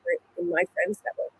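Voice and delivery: muffled, as if through a hand. Real, not acted. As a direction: voice muffled by the mic. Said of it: "your mic went a bit, uh, muffled".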